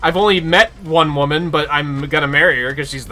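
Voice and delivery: mock oblivious Snow. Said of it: "he's just like".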